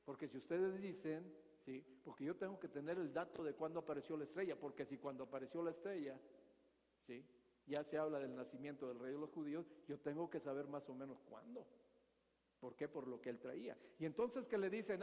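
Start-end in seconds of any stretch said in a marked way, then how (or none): 0.0-11.6 softer, scheming king leaning in to ask; hushed calculating Herod questioning the magi. Retold or imitated. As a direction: quietly plot and probe for the date. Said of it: "piensa lo que está él maquinando".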